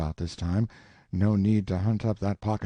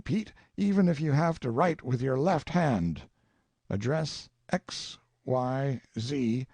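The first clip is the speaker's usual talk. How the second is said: dictating; 5 semitones higher, slower than usual. Acted. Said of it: "Word it like this".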